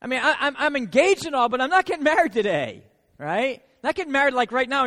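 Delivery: flustered Mary. Retold or imitated. Preacher voicing Mary to angel.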